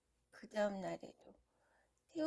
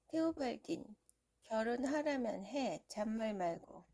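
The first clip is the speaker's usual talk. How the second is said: commanding father, pitch raised; stern parent. Acted. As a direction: bark the order. Parents order marriage.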